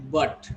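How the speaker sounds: "but" with a firm, short uh; strong A. Shown as a demonstration. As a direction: stress the vowel in "but". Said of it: "strong A sound".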